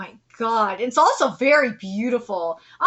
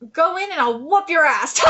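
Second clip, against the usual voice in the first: louder mock threat; joking threat; 6 dB louder than usual. Reader messing with the boy's room tour, mock threat. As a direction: threaten playfully, about to burst out laughing. We're just messing with him.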